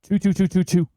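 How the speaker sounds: choo choo like a toy train; playful train sound effect; chugging toy train voice. Shown as a demonstration. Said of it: "If I say choo choo more".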